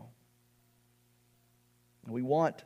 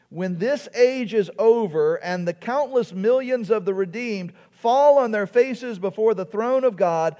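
impassioned preaching; 7 semitones higher, 7 dB louder than usual. Real, not acted. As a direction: quote read in a raised preacher's voice. Reads quote with preaching force.

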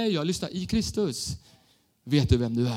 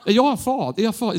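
puzzled; 4 semitones higher, 3 dB louder than usual. Retold or imitated. Puzzled young self.

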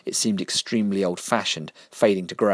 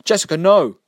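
high, loud cry of no; desperate shout; 11 semitones higher, 10 dB louder than usual. Acted. Mister Vinegar crying out to stop Jessica, loud desperate shout. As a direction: yell to stop her.

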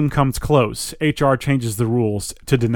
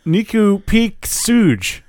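backwards speech; 8 semitones higher, much slower than usual. Acted. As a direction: drag out the reversed words and shout them. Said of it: "Speaking backwards".

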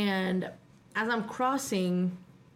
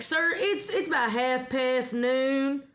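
mock cop voice; 4 semitones higher, slower than usual.

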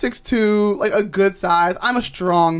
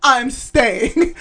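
insistent; 6 semitones higher than usual. Retold or imitated. Desperate insisting.

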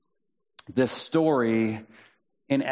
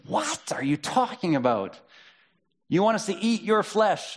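rising in mock disbelief, much higher; incredulous crowd; 8 semitones higher than usual. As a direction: play the baffled crowd. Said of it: "And people were like".

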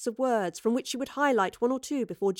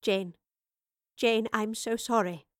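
gentle, slow regret to a friend; soft apology; slower than usual. A narrator's reading. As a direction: say it tenderly, without hurry. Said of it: "the professor said softly".

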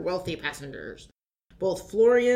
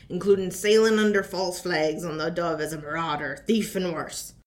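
put-on pirate accent. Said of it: "hosting things with a funny accent".

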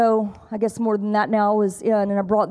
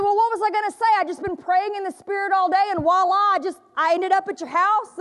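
imitating the woman; 8 semitones higher than usual. Woman tells the homeowner.

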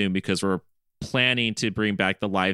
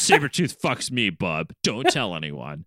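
slow, lower confiding character voice on the last words; Logan impression; 4 semitones lower, slower than usual. Co-host as Logan shares a secret, lightly put-on impression. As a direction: drop lower for a lightly voiced tough hero. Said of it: "have Logan come back and be like".

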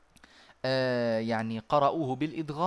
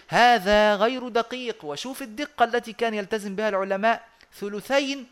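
emphatic; 6 semitones higher, 4 dB louder than usual. Real, not acted. Teacher warning students against careless madd. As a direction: insist this is wrong. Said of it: "teacher correcting sloppy reciters".

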